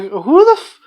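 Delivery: high, freaked-out squeak; creeped out. Retold or imitated. The biker is creeped out by her performance, so a high startled squeak. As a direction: recoil from something unsettling. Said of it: "he's actually creeped out by her".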